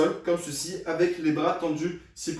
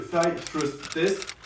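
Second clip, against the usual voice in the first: "Thigh Thrust Test" in a French-accented English; much slower than usual. Real, not acted. Physio naming the test for viewers, French-accented English. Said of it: "Désolé pour mon accent anglais".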